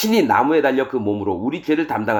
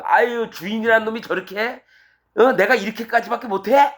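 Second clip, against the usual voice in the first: high-pitched indignant grumble; acted complaint about the boss, pitched up; heated whining; 7 semitones higher than usual. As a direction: whine like a fed-up servant. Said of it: "막 이렇게 뭐 열받아가지고 막 찡찡거리면".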